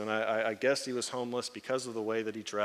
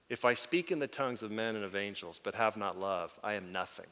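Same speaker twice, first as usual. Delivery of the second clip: solemn recitation; 4 semitones lower, 6 dB quieter than usual. Retold or imitated. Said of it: "he's as serious as a heart attack".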